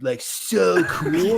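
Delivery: slow, drawn-out surfer dude. Acted. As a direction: stretch it out like a chill surfer. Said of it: "total surfer dude".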